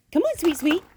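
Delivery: high, lilting coax to the dog; high coaxing call. Real, not acted. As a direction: lure her along sweetly.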